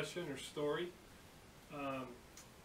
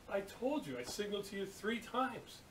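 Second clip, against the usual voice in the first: higher-pitched imitated comeback; exasperated retort; 5 semitones higher than usual. Apprentice answering the angry steel worker, exasperated. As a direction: answer back with mock indignation.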